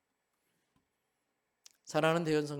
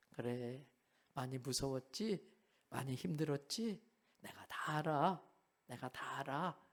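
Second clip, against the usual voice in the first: softer, lower, soothing voice; tender comfort; 4 semitones lower, 9 dB quieter than usual. Acted. Jesus embracing his crying disciples, gently comforting. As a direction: hold them close with your words.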